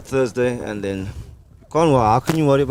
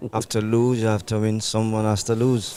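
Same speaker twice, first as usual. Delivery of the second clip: put-on West Indian accent. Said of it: "very good West Indian accent".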